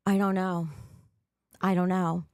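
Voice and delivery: breathless after jumping jacks; panting between words; out of breath. Real, not acted. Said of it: "sorry, I'm out of breath".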